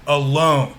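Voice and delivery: "Alone" with a light "a" and a strong "lone"; stress on second syllable. Shown as a demonstration. Teacher demonstrating an iamb, "Alone" stressed on its second syllable. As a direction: lean firmly on "lone" in "Alone". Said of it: "We emphasize the second syllable".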